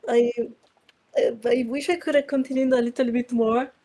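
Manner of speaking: stuffy nose voice; blocked nose. Real, not acted. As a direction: talk through a blocked nose. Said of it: "I can't breathe through my nose".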